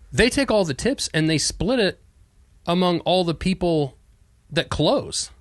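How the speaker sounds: high-pitched imitation of an upset daughter; mock-indignant retelling, high; retold indignation. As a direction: quote her outrage, pitched well up. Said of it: "I'm pissed".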